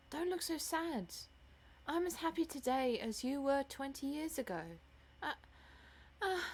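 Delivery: tender plea to a sad mother; love-struck daughter, pleading. Acted. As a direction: coax your mother to let you be happy.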